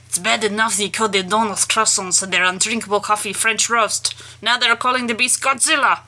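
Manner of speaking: lightly voiced French accent; a hint of a French accent. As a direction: read it as a huffy Frenchman, lightly. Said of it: "do this accent again".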